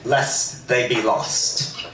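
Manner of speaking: reading with a light, put-on Irish lilt; a gentle mock Irish storyteller's accent; faux Irish lilt. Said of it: "a little bit of a faux Irish lilt".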